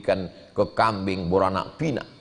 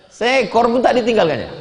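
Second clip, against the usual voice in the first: laughing; 13 semitones higher, 6 dB louder than usual. Real, not acted. Punchline of the story.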